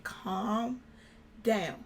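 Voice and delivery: soft, slow-spaced soothing; mother calming. Retold or imitated. Mother on the phone to panicked daughter, retold calming. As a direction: talk her down gently, pausing between the words.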